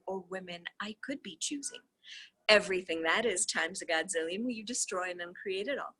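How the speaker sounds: steady, even reading of a dialogue; reading a transcript aloud. Acted. Reader reads the call transcript to viewers, steady reading voice. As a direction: read the call text out, voicing both sides lightly.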